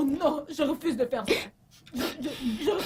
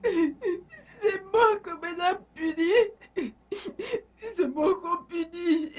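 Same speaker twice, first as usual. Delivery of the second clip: mock wailing; 4 semitones higher, slower than usual. Servant wailing over punishment.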